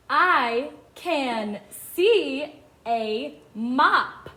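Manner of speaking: very slow, separated words; each word stretched with a gap after; word-by-word reading. Shown as a demonstration. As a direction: read it out slowly for beginners to follow. Modelling reading for young children.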